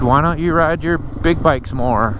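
ordinary talk, nothing marked

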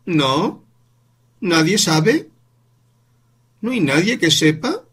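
niño muy agudo y sonoro; niño incrédulo. Acted. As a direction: pregunta asombrada de niño. Voz del niño Paul. (niño insistiendo ante su madre, muy agudo)

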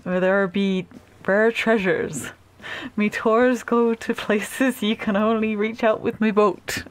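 slow, lightly voiced pirate reading; a hint of slow pirate talk; pirate character. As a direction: read it as a leisurely pirate captain. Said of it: "oh, maybe he's a pirate".

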